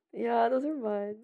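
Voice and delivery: usual speaking voice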